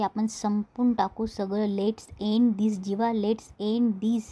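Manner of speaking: drawn-out, deliberate acted appeal; slow right down, stretching each word; retold plea, spaced out for drama; slow insistent plea. Acted plea to end it all.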